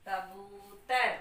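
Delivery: कबूतर said slowly, syllable by syllable; teacher blending कबूतर slowly for children; slow blended word. Shown as a demonstration. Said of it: "बड़े ऊ की मात्रा".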